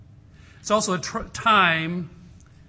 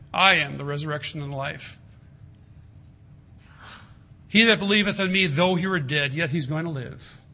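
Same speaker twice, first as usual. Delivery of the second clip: rising to a loud climax on whoever lives; proclaiming; 4 dB louder than usual. Acted. Preacher proclaiming Jesus' promise to Martha, building to loud.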